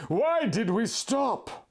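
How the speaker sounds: slow, lifted question. A narrator's reading. Jenna asking Link why they stopped, lifted and slow. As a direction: ask why they halted. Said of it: "I questioned".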